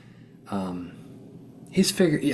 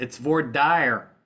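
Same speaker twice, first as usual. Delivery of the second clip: mock Texas drawl; slower than usual. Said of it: "a guy from Texas jokingly said".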